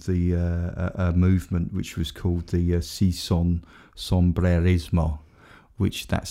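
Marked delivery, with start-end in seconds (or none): 2.8-5.2 put-on Spanish accent. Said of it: "that's my Spanish accent there".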